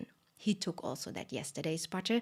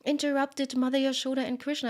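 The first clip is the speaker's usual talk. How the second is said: high, louder, aghast self-reproach; milk realizing its offense in dismay; horrified milk; 7 semitones higher, 4 dB louder than usual. A narrator's reading. Milk scolding itself for interrupting Yashoda, high aghast cry. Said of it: "And she thought".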